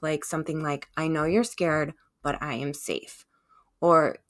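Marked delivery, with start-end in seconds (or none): 1.0-3.3 gentle reassurance. Pretend. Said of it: "Try responding gently".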